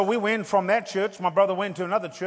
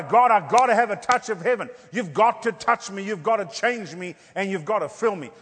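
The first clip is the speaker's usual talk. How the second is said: desperate cry; 2 semitones higher, 4 dB louder than usual. Retold or imitated. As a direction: cry out to God. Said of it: "I was determined".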